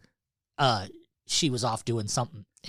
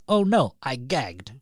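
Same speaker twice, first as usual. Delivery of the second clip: put-on slow baby voice; 3 dB louder, slower than usual. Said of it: "clear as day, he goes".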